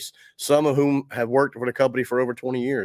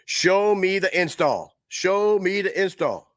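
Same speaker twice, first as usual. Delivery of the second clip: coaxing call; 6 semitones higher, slower than usual. Real, not acted. Urging Lewis to roll the video.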